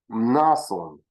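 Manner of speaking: "Mnason" with a humming "m" before "nason"; "Mnason" with the m sounded through the nose; nasal onset. Shown as a demonstration. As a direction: start "Mnason" on a nasal hum. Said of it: "why would you have a nasal?".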